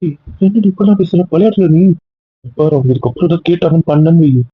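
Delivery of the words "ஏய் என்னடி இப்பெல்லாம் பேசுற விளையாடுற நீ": teasing surprise. Acted. Husband teasing wife mid-argument.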